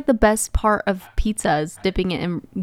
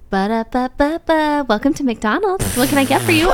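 imitating a cheery cashier; 6 semitones higher than usual. McDonald's cashier greeting a customer in high sing-song voice. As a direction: chirp it like a drive-through worker. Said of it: "the girl goes".

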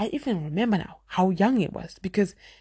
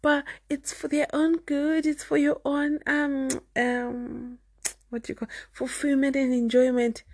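mock objector; 8 semitones higher than usual. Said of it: "You may say".

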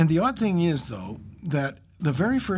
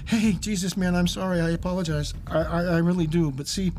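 terrified apology; 5 semitones higher than usual. Retold or imitated.

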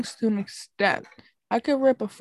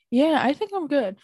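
strained after a cough; catching breath after coughing; 4 semitones higher than usual. Real, not acted. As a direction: recover from a cough. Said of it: "pardon me if I start coughing".

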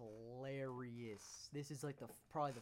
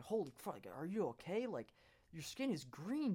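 imitated alarmed teacher, pitched up; mock-urgent concern, higher on the key words; serious alarm; 4 semitones higher, 4 dB louder than usual. Teacher checking on a green-skinned student, serious alarm. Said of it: "the teacher took it real serious".

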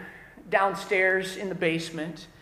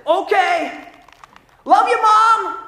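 much higher, louder careless sing-song; lazy kid; 10 semitones higher, 10 dB louder, slower than usual. Retold or imitated. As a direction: toss off a love you without moving. Kid calls goodbye to mom.

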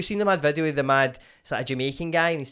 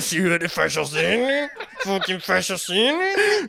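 mock fish voice; 5 semitones higher, much slower than usual. Mates riffing on fish people.

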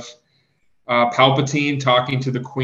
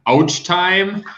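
higher Gungan-style quote voice; Captain Tarpals; 7 semitones higher, 4 dB louder than usual. Retold or imitated. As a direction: put on a goofy alien voice, a little higher. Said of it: "and I quote".

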